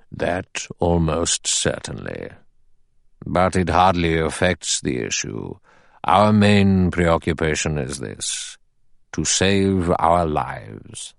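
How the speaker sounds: a hint of a grave old judge addressing the men. Narrator voices the judge.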